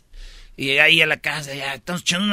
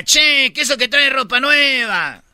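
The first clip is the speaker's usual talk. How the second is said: put-on Argentine accent; 5 semitones higher, slower than usual. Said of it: "En Argentina".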